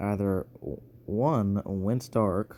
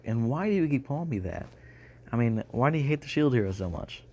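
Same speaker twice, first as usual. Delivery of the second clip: higher, hurried challenge to an accuser; retold protest, pitched up and quick; indignant questioning; 4 semitones higher, faster than usual. Slime hero asks the king why he hates him, indignant.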